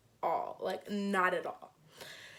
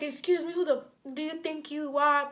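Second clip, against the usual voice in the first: higher confronting yell; 5 semitones higher than usual. Retold or imitated. Confronting the boyfriend in the hallway, raised and high. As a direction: raise your voice at him in the hall.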